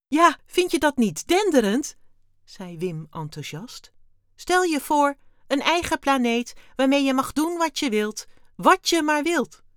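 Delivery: very high, loud gushing alien; enthusiastic. A narrator's reading. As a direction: rave about it with mounting delight. Wim raves, then tag says enthusiastic. (uitbundig enthousiast)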